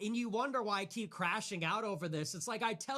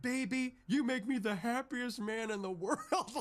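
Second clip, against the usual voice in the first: mock tender; 4 semitones higher than usual. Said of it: "looking into his wife's eyes and being like".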